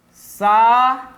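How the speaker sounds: "Sabiá" in three widely spaced syllables. Shown as a demonstration. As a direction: say sa, bi, a with long pauses in "Sabiá". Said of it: "devemos fazer a separação".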